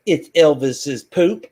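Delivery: slow, deadpan lady quote; lightly voiced proud customer; mock customer voice. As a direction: drag it out like she's dead serious. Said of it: "And she's like".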